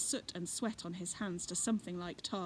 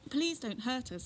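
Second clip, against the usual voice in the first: higher, small pleading voice; child's plea; 6 semitones higher than usual. Acted. Child in the bush begging Fred, lightly voiced child plea. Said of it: "said the bush".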